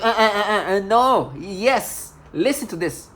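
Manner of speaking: mocking a flustered neighbor, loud stammering. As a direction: ape her nervous stutter. Imitating flustered stammering woman.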